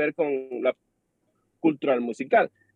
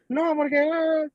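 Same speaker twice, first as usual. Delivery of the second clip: high, spluttering mock yell; retold yelling; 9 semitones higher, slower than usual. Boss cutting off the worker's reply, mock yell. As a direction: imitate a boss yelling over an objection. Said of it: "Si me sigue gritando".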